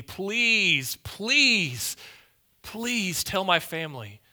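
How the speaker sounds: drawn-out, high acted begging, easing at the end; urgent pleading. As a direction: beg as the desperate rich man. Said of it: "he had this sense of urgency".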